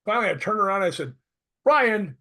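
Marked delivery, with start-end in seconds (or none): 1.6-2.2 high, loud retold outburst; mock exasperation. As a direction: call out in playful exasperation at someone's unintelligible talk.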